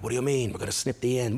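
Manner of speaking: put-on little boy asking what she means; confused kid. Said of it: "I'm like".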